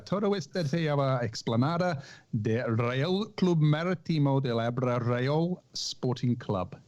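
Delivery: reading Spanish text in a hopeful Spanish accent; a game go at reading Spanish aloud; attempt at Spanish. Shown as a demonstration. Host reading the Spanish regatta website to co-hosts in Spanish. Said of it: "that was an attempt at my Spanish".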